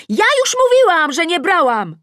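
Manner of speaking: very high, loud protesting yell; shout. A narrator's reading. Tosia denying it through the window, shouting. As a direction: yell your denial out the window. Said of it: "Tosia krzyczy przez okno".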